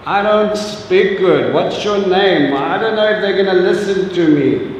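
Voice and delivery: a hint of a whiny, hesitant Moses; Moses making excuses. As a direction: play a reluctant Moses begging off. Moses listing his excuses.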